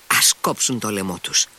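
plain reading voice

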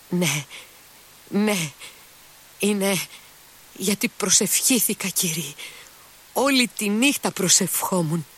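high, overwhelmed thanks to God, nearly choking; breathless grateful prayer. A narrator's reading. Mitya thanking God for the servant's life, high breathless relief. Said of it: "Πνίγονταν σχεδόν".

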